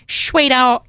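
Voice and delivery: put-on lightly done East End accent on Sweetheart; East End nan accent. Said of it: "my nanny's, like, East End, London-y kind of accent".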